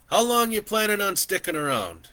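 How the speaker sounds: put-on an old man chatting easily from horseback; gentle old landowner welcoming a stranger; kindly old man.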